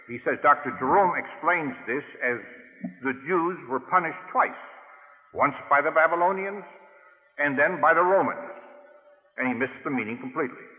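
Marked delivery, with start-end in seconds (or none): 0.4-8.5 mocking quote. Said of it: "a title he usually gives when somebody has goofed".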